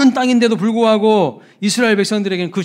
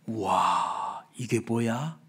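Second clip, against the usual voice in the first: low, soft wow of wonder; quietly amazed, taking it in; hushed awe; 7 semitones lower, 10 dB quieter, much slower than usual. Acted. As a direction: marvel under your breath, low and quiet. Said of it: "감탄하고 감동했어요".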